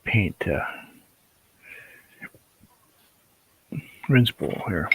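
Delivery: talking through hiccups; hiccuping mid-sentence. Real, not acted. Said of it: "Excuse me for hiccuping".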